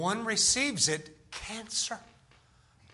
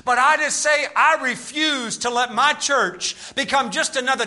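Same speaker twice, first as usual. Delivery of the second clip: driving, slightly raised sermon voice; forceful revival-preacher delivery; impassioned preaching; 5 semitones higher, 6 dB louder than usual. Real, not acted. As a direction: preach your conviction to the whole church.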